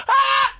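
short high startled yelp; sudden loud scare shriek, acted out; mock scream. Imagining somebody pop out of the trunk, mock scream. Movie jump scare retold.

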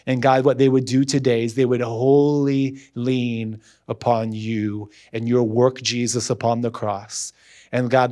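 steady, earnest prayer voice; closing prayer. Acted. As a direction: pray over the congregation.

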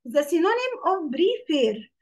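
very slow deliberate question; slow dictation. Shown as a demonstration. Teacher asking the class for a synonym, very slow. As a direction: spell the question out slowly.

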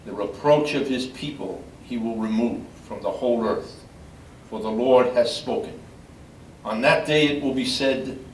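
measured, solemn reading voice; scripture reading. Acted. Lector reading scripture to the congregation, solemn and measured. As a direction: read it out to the gathered mourners.

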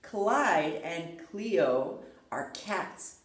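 lively storybook reading with character voices; reading to children. Acted. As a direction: read aloud like bedtime story time. Reads picture book to children.

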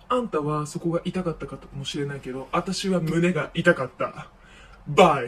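mock-tragic parting shot, bye punched loud; melodramatic farewell. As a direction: deliver it like a wounded soap diva. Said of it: "すごいドラマチックに喋るのよ".

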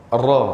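Ra said with the mouth open, not rounded; open ra demo. Shown as a demonstration. Teacher correcting a rounded ra. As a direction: say Ra open, lips not pushed out. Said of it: "Bukan ra. Mulut bukan muncul".

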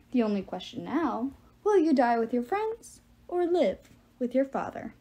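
mock-regretful villain, pitch swinging up; lightly voiced taunting giant; menacing giant. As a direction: pronounce doom with false sympathy. Giant villain delivers threat.

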